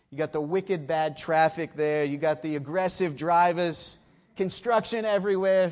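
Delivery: a quick slip into a Boston accent. Shown as a demonstration. Preacher slipping into his old Boston accent. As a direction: drop into a light Boston accent. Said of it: "had to go back to that Boston accent".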